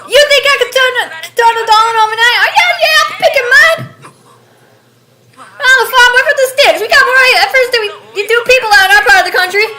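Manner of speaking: high, loud Southern rant; top-of-your-lungs rural Southern outburst; screaming in an accent. Acted. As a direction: yell it all out in a country accent. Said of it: "along with screaming".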